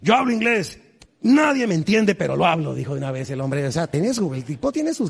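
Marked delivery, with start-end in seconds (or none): 0.0-2.7 proud, no-shame attitude. Retold or imitated. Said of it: "me gusta su, su actitud".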